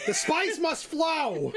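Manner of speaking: hammed-up movie line through laughter; mock Dune proclamation. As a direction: declaim it like a film villain. Quoting Dune jokingly.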